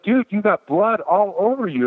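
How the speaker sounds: lightly voiced young clerk pointing out the blood; mock alarmed clerk. Store clerk telling him he is bloody, mock alarm.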